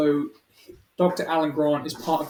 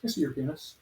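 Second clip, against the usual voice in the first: softly put-on Peaky Blinders character; half-hearted Peaky Blinders voice, softer; Peaky Blinders impression; 7 dB quieter than usual. Showing the only one they can do, soft Peaky Blinders impression. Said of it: "The only one I can do is the".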